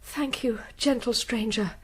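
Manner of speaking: soft breathless whisper of thanks; grateful whisper. Acted. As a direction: whisper so no one hears. Fugitive thanks rescuer secretly.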